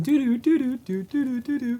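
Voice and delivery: mock ringtone doo-doo. Co-host imitating the Discord call sounds, sing-song mimicry.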